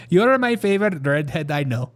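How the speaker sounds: imitated Indian neighbor accent. Neighbor complimenting his redhead friend, mock Indian accent. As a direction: put on a playful Indian accent. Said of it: "my worst Indian impression".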